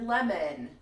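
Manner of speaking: "lemon" with a faint short E before the N; subtle E in ending. Shown as a demonstration. Teacher showing fourth graders the ending, subtle E in "lemon". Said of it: "you hear that subtle E in there".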